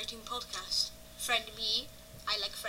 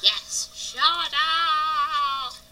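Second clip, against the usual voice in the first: excited; 5 semitones higher, 8 dB louder, much slower than usual. Pretend. Excited at episode name.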